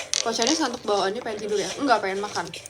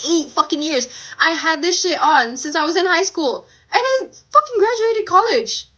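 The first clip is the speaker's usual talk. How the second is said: loud rant; 2 semitones higher, 5 dB louder than usual. Real, not acted. Heated rant about braces.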